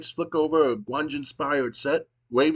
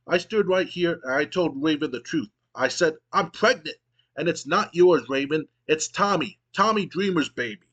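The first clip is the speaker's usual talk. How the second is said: trembling voice; 3 semitones higher than usual. Acted. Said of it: "in a trembling voice".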